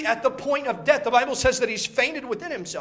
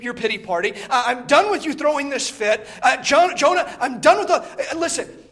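a firm rebuke, higher and louder; stern God; 4 semitones higher, 4 dB louder than usual. Retold or imitated. God confronting sulking Jonah, raised stern voice. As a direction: scold him like a father at the end of his patience. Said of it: "God sits Jonah down and says".

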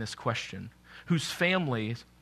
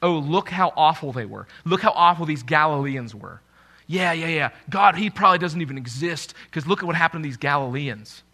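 self-righteous sneer; 6 dB louder than usual. Retold or imitated. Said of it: "people can become so self-righteous and they think".

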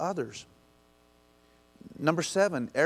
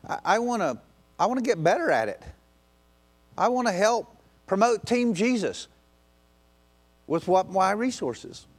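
eager imagined listener; 4 semitones higher than usual. Pretend. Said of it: "some of you are going".

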